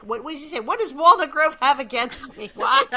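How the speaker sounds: high voice swelling to a loud protest; aggrieved poor man. Acted. Poor man wondering why town hates him, loud mock protest.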